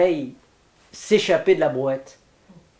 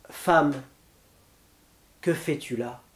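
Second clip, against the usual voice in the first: soft, lowered voice on the question; gentle questioning; 3 semitones lower, 6 dB quieter than usual. A narrator's reading. Jesus questions the old woman, gently and softly. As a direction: ask it softly, dropping the pitch. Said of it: "et doucement interroge la vieille".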